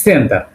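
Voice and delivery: "সেন্টার" as Russian-style "ssen-ta", dental t; Russian pronunciation. Shown as a demonstration. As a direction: say "সেন্টার" with a hissed start and no final r. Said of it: "Russian ভাষায় বলবে".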